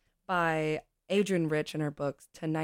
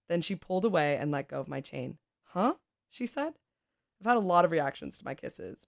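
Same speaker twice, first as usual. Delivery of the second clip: expressive read-aloud of a story. Acted. Reads a short story aloud.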